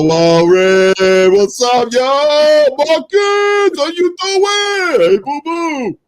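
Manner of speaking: greeting the crew in a high hyped voice; high excited greeting. Pretend. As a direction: call out to the friends like an overexcited fan. Greeting friends in a put-on voice.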